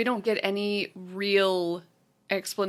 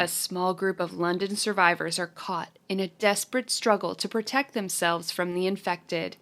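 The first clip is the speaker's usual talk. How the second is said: reading a synopsis. Shown as a demonstration. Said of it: "the synopsis from Letterboxd".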